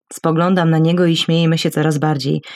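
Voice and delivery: plain reading voice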